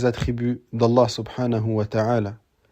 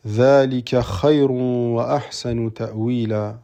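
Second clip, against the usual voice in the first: Quranic recitation. Acted. Recites a Quranic verse in Arabic.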